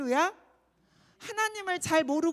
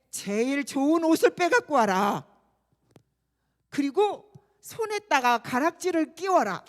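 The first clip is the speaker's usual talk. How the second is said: commanding father; 5 dB louder than usual. Acted. Father orders servants.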